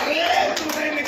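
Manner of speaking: slow, drawn-out mock wail; comic long-drawn howl; mock bawling. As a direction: stretch the cry out like a bawling husband. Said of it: "கத்துறான்".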